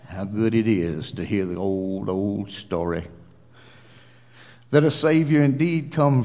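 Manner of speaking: low, measured pulpit prayer with swells; earnest closing prayer. Real, not acted. Preacher praying to Heavenly Father for the unsaved, earnest. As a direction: pray reverently, swelling on key phrases, then dropping.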